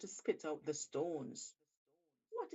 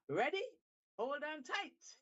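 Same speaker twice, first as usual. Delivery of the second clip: eager shark; 9 semitones higher than usual. Acted. Shark sets off.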